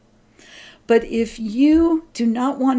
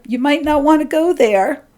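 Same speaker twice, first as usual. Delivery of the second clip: high, quick, louder sing-song warning; mock-wary nudge, brisk and high; intuition's gentle caution; 5 semitones higher, 5 dB louder than usual. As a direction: play a doubtful inner voice, pitched up. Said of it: "Mine always sound like".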